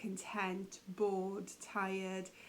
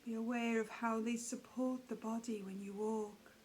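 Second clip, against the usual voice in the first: guided meditation; 5 dB quieter than usual. Acted. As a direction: leave long pauses as you guide attention through the body.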